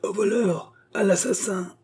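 high, urgent narrated yell; crying out at the top of the voice. A narrator's reading. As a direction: cry for help in a high voice. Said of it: "criant à tue-tête".

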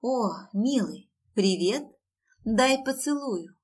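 slow slurred tipsy voice; drunk slurring. Acted. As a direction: slur it like too much champagne. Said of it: "Еле ворочая языком".

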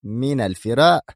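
"من الفراء" as a rising question; puzzled echo. A narrator's reading. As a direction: repeat "من الفراء" doubtfully, pitch lifting at the end. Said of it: "انعقد حاجبا دونا وهي تردد".

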